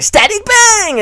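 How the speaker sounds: high, drawn-out shouted attack name; anime attack call. Acted. Voicing the electric girl, he calls her attack slowly and loudly.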